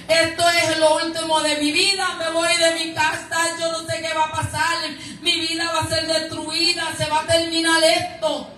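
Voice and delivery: hammed-up hopeless complaining; acted despairing lament. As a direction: pile up the woes like someone giving up. Acts out believer's end-of-world lament.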